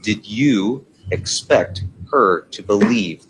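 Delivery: slowly, word by word, so the judge hears every part; slow, deliberate repeat. Real, not acted. Lawyer repeats the question slowly at the judge's request. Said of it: "Let me hear the question again".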